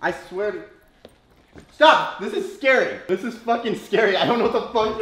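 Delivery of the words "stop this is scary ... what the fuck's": spooked. Real, not acted. Spooked by touch in blindfold.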